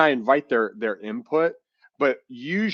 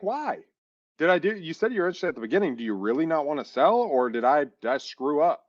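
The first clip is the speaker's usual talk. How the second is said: pleading fast; 5 semitones higher than usual. Retold or imitated. Pressing the seller on the phone.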